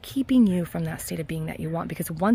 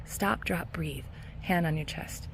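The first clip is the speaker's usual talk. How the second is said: soft calming cue; 7 dB quieter, slower than usual. Shown as a demonstration. Coach guides viewers to calm down, softly. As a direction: ease each word out like an exhale. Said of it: "Go practice this one thing".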